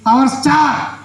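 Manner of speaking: high, proud puppet announcement; puppet character. Acted. Puppet naming its elder son, proud puppet voice.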